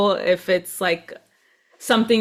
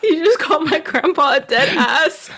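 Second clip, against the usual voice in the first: higher, laughing through mock outrage; mock offended, laughing; 5 semitones higher than usual. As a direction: play offended but crack up. Acting the offended grieving friend, laughing.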